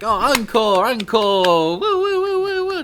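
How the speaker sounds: loud, high whooping encore; bartender cheering. Acted. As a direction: cheer the trick like a rowdy barkeep. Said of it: "the bartender is like".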